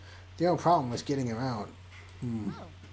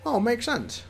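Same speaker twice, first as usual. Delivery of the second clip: squeaky Liam voice; 6 semitones higher, slower than usual. Acted. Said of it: "the squeaky voice I do for Liam".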